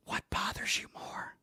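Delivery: slow, hushed whisper into the microphone. Real, not acted. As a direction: whisper the question slowly and pointedly. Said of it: "I'm gonna whisper in the microphone".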